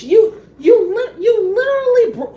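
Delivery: breaking into laughter while ranting; laughing in disbelief. Real, not acted. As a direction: laugh through the words in disbelief.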